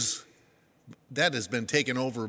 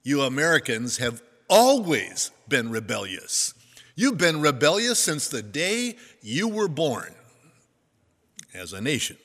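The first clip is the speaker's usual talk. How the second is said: loud, emphatic British speaker, lightly imitated; British accent; 6 dB louder than usual. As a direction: scold the Americans with a hint of British accent. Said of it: "In his lovely British accent".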